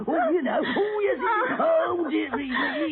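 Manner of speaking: put-on old woman voice. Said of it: "you ought to be on stage".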